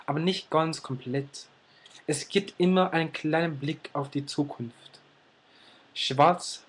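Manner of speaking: measured poem reading with pauses between phrases; poem recitation. Acted. Reading a self-written German poem to viewers, measured recitation. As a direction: recite your own poem line by line, lingering on key words. Reads own poem aloud.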